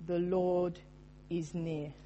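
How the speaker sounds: soft, hushed "The Lord is near" with "Lord" gently leaned on; soft first reading. Shown as a demonstration. Pastor first reads the verse to the congregation, softly. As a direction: quietly lay "The Lord is near" down, "near" trailing away. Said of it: "It's not a theoretical point".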